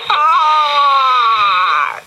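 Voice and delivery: long, high, loud scream of fright. Acted. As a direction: scream as if dangling from a roof. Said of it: "he screamed".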